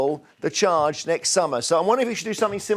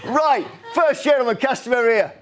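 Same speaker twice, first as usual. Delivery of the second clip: giggling through a vendor call; laughing ticket seller; 5 semitones higher than usual. Acted. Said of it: "I would be basically the ticket master".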